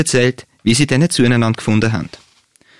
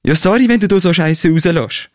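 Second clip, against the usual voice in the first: higher, exasperated yell; angry shout; 6 semitones higher than usual. A narrator's reading. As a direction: throw it back at her in annoyance. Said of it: "schreit er sie an".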